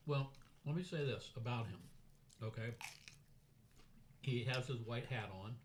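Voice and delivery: talking while chewing chips; words round a mouthful of chips; crunching chips. Real, not acted. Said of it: "This is a tricky dinner".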